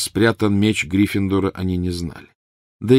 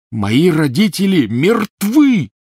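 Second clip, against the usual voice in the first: slow, high, loud furious roar; 10 semitones higher, 7 dB louder, much slower than usual. A narrator's reading. Harry roaring at Ron, furious roar. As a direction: roar it out in fury. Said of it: "взревел Гарри".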